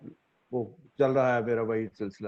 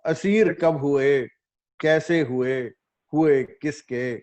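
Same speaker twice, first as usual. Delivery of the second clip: measured ghazal recital with held pauses; mushaira recitation; 3 semitones higher, slower than usual. Acted. Poet opens a ghazal before appreciative listeners, mushaira recitation. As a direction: recite the couplet phrase by phrase.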